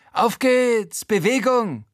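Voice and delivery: a bossy man hurrying people out; high, blustering landlord. Acted. Claudius orders them along. (hoher, herrischer Vermieter)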